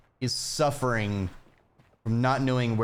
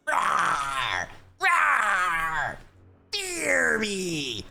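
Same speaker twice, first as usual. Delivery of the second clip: hammed-up roaring dinosaur; playful tyrant dinosaur demanding fruit; mock dinosaur; 3 semitones higher, slower than usual. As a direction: roar like a silly monster. Playing a fearsome dinosaur.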